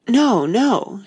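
high, loud hasty correction. A narrator's reading. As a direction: catch yourself quickly. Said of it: "she hastily corrected herself".

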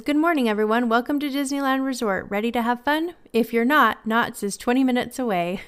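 brightly imitated park welcome, pitched a little up; cast member greeting. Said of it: "a cast member was saying this to guests".

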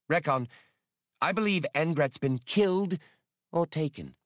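lightly voiced anxious alien mother; measured alarm, rising as the fear comes out; agitated Triani woman. Triani reports a missing comrade to the leader, agitated.

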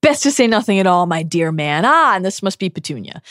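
a hint of politely cutting character voice; courteous put-down, starting high and easing down; Dumbledore. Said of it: "And then Dumbledore says".

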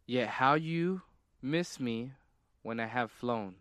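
slow, deliberate reading with pauses between phrases; measured, puzzling recital; oddly paced riddle reading. Real, not acted. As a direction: read out the riddle slowly, spacing the phrases. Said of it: "You're reading it so weird".

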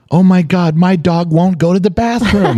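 high-pitched imitation of a screaming child; hammed-up little-girl shriek, climbing into a drawn-out falsetto; mock screaming. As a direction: wail it like a four-year-old in crisis. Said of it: "and she's screaming".

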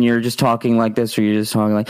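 monotone. Shown as a demonstration. Coach showing streamers how monotone sounds. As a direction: demo of a monotone delivery. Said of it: "or you're monotone".

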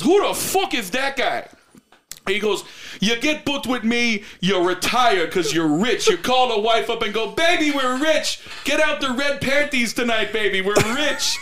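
trash-talk like a brash Irish champ; hammed-up Irish press conference boast; mock Irish brogue. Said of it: "Connor turns around and goes".

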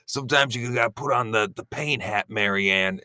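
mild mock Mike advising Marianne; lightly voiced Mike, telling Marianne to wear the pain hat; Mike impression. Mike consoling Marianne, lightly voiced. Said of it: "It's my Mike impression".

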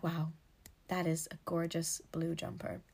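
put-on admiring a shop window in a light American accent. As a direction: gush over a jumper in a hint of an American accent. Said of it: "Don't know why I went American then".

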